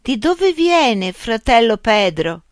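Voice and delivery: high, slow wondering voice; blind villager asking. A narrator's reading. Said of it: "chiese uno". (cieco curioso, voce alta e lenta)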